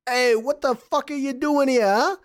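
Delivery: high, loud thug voice; guard voice. Acted. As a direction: snap at the intruder. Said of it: "he says".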